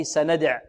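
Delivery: "سندع" halted on the consonant ayn, no waw; stopping form. Shown as a demonstration. Teacher shows how to stop, "سندع" ending on still ayn. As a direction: cut "سندع" off at ayn without a final vowel. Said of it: "كيف نقف عليها هذه".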